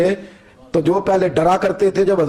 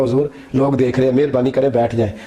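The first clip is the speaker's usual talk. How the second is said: pleading servant; 6 semitones lower than usual. Acted.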